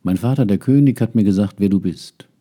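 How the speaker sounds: put-on young prince confronting the magician, indignant. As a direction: confront the stranger, outraged. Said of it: "sagte der junge Prinz entrüstet".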